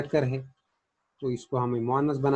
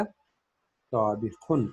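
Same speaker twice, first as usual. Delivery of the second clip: slow answer; much slower than usual. Shown as a demonstration. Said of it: "तबिखा से क्या बनेगा?".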